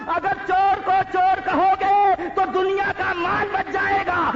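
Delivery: high, loud, sustained shout; full-force preaching. Real, not acted. Preacher exhorting the Muslims of Bombay, full-force shout. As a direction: drive the moral home at the top of the voice. Sermon climax to the crowd.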